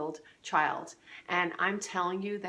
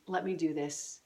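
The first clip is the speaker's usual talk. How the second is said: soft, low, gentle husband; quiet sincere thanks to a wife; tender reassurance; 3 semitones lower, 4 dB quieter than usual. Shown as a demonstration. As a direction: comfort her quietly. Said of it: "and say".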